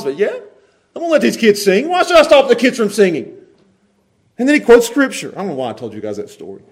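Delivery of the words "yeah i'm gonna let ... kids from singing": raised, untroubled reply with a smile; smiling defiance. Acted. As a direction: breezily refuse to stop them. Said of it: "I just imagined smiling".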